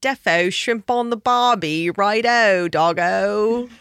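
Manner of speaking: mock Australian accent. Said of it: "I can't really do an Australian accent".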